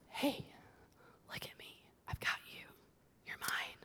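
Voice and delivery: soft unvoiced whisper as God comforting; tender whisper. God whispering comfort to a hurting listener. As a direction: breathe it gently, close and reassuring.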